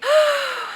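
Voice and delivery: loud high gasp; excited gasp. Real, not acted. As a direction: gasp with delight.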